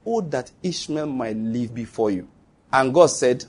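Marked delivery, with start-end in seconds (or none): 0.1-2.3 soft, low, slow prayer; hushed retold plea. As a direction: plead quietly with God, slowly. Abraham's prayer to God, retold.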